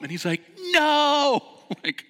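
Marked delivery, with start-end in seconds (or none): 0.7-1.4 high very loud no; stubborn refusal. Retold or imitated. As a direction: refuse flatly. Retold refusal in rapids.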